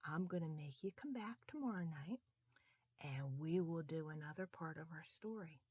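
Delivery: quiet and tender; soft bedtime sign-off. Real, not acted. Storyteller to children at bedtime, tender. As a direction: tuck them in gently.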